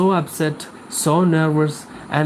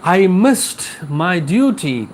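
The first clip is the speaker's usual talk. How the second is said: a lightly raised, hurried plea of a guilt-stricken priest; anxious priest's lament; 3 semitones higher than usual. Acted. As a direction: voice the priest fretting that he failed his duty. Teacher voices the panicked priest.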